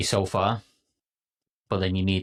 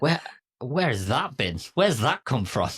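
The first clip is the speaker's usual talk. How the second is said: higher-pitched, amazed questioning; astonished discovery; 6 semitones higher than usual. Acted. Telling listeners how eye-opening it is, amazed questioning. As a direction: marvel at a sudden revelation. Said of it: "it's so eye-opening".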